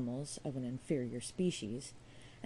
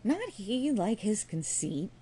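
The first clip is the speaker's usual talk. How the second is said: mock scream; 5 semitones higher, slower than usual. A narrator's reading. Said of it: "screamed one of the ladies".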